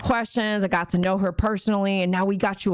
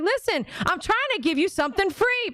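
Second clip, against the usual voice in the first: higher, pleading explanation; exasperated quote; 10 semitones higher than usual. Retold or imitated. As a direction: spell it out like you're fed up. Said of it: "And I'll be like".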